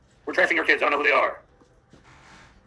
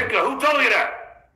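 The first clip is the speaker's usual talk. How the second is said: put-on higher, slow, indignant old comic; Pat Cooper voice; 4 semitones higher than usual. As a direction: play the outraged old Borscht Belt comic. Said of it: "Pat Cooper voice".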